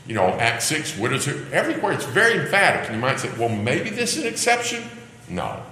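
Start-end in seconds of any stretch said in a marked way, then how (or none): 3.4-4.9 high, lighter doubter's voice; mock tentative suggestion; imagined objection. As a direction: pitch it up high as someone floating a doubt.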